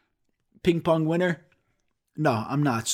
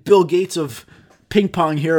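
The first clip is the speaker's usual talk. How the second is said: mock shock, getting louder; 5 dB louder than usual. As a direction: imitate a stunned teacher, building in volume. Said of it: "my teacher was shocked".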